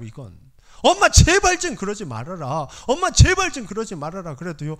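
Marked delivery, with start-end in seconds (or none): 0.8-2.7 desperate plea. Retold or imitated. Pleading with mother. 2.9-4.3 desperate plea again. Retold or imitated. Pleading repeated.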